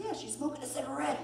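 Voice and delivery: high-pitched hasty cover-up; mock defensive excuse. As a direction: wriggle out in a high voice. Acted excuse in retold quarrel.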